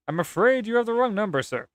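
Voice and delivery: high-pitched put-on operator. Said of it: "I gave her the wrong voice".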